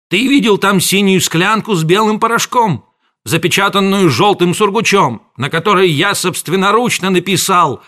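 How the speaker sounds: high, loud accusation; scolding rant. A narrator's reading. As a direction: hammer home the danger. Apothecary scolding.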